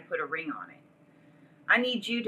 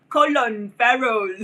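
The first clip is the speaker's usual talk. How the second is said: slow, loud and high put-on accent on the name; mock Asian accent; 4 semitones higher, 11 dB louder, slower than usual. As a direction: drag the name out in a mocking accent. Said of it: "That's my Asian voice".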